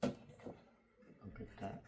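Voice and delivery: slow breathless whisper of wonder; awed whisper. Real, not acted. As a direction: whisper it, staring in awe. Awed whisper at unboxed item.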